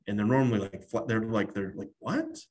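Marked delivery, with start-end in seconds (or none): 2.0-2.4 shocked what. Retold or imitated. Client shocked at possible savings.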